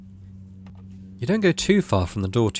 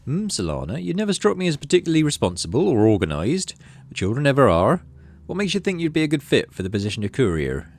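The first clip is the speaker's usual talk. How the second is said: lightly voiced stern administrator; 4 semitones higher than usual. Administrator interviewing the child.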